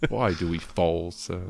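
slow mock Cockney butler; Michael Caine impression. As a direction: deliver it slowly in a Cockney accent. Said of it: "That's my Michael Caine".

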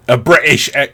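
half-hearted stab at a British accent; attempted British accent. Shown as a demonstration. Podcaster trying a British accent and giving up, faltering British. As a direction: try British and abandon it. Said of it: "to do a British accent".

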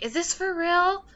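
a light squeal of disbelief; imitating excited friend.

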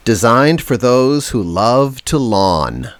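tagline read. Retold or imitated. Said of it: "their tagline is now".

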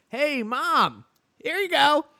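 high and loud cartoon voice; hammed-up toy figure voice; squeaky little man voice. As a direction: play the peeing sake figurine, cheeky. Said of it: "and it's like".

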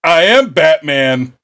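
hammed-up heroic impression; Batman. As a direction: announce it like a self-serious masked hero. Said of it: "where he's just like".

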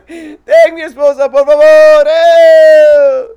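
hammed-up Spanish accent. Cheesy comic telling a podcast host his jokes, in a hammed-up Spanish accent.

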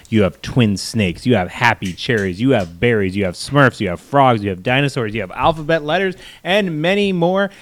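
upbeat sponsor pitch voice; ad read. Acted. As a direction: sell it like a cheesy ad host. Reads a sponsor ad.

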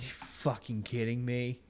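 breath-only muttered disbelief; retold whispery complaint; exasperated aside.

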